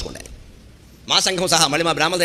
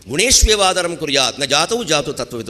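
slow verse recitation. Shown as a demonstration. Recites Sanskrit verse slowly.

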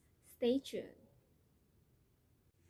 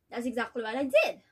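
worn-out mother, resigned and hurt; disappointed mother; weary mother; 3 semitones higher than usual. Acted. Nella recalls obedience, despairs of daughter.

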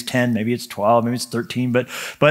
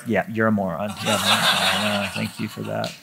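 mock sarcastic reply; 5 semitones lower, 7 dB quieter than usual. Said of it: "they're like".

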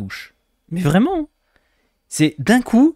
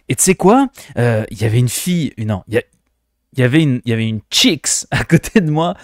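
mock Québécois accent. Shown as a demonstration. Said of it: "on va le faire un québécois".

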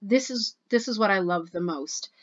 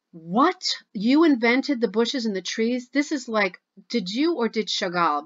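louder, rising amazed echo of her claim; astonished disbelief; 2 semitones higher, 4 dB louder than usual. Real, not acted. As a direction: throw the words back in stunned admiration.

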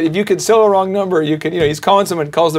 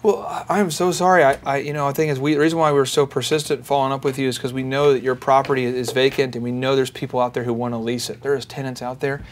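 soft, hurt, apologetic; wounded dog; 3 semitones lower, 6 dB quieter than usual. Retold or imitated. Salesman soothing an angry owner, softly wounded. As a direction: play the wounded dog, quiet and sorry. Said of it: "I wounded dog".

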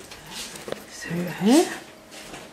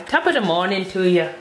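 Irish accent attempt. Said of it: "I can't do Irish. I'll try".

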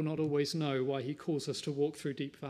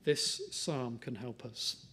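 softer, slower, tender reassurance; tenderly; 2 semitones lower, 3 dB quieter than usual. Real, not acted. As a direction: gently reassure the hurting listener. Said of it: "Can I say tenderly".

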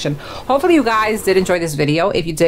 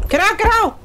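frantic shout; faster than usual. Real, not acted. Urgent command to her character.

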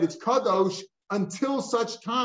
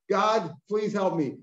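mock plea; 3 semitones higher, slower than usual. Acting the man's desperate vow.

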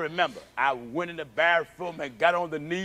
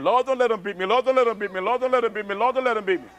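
put-on childhood prayer; 5 semitones higher, much faster than usual. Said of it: "I went and was praying".

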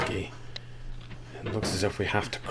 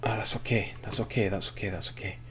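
fading reassurance; 6 dB quieter, faster than usual. Real, not acted. Calming himself after slip.

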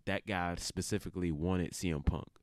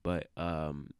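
monotone. Real, not acted. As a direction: drag it out flat and sleepy. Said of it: "I apologize for my monotone tone".

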